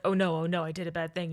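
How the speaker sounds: brisk, understated imitation of a confession; quick, toned-down film version. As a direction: rush through the apology without whining. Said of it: "go over it a lot quicker".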